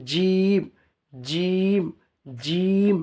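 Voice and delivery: জিম pressed from mid-tongue against the palate, held long; slow, firmly pressed জিম; dense, heavy articulation. Shown as a demonstration. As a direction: press out a thick, drawn-out জিম. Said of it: "জিমটা একদম গাঢ় ভাব হবে".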